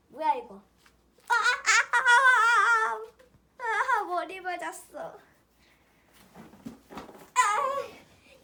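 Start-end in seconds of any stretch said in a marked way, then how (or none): 1.3-5.2 sharp rising yelps of pain, drawn out; pained cries. Real, not acted. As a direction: cry out as if just struck on the head. Lamp pops, hits head.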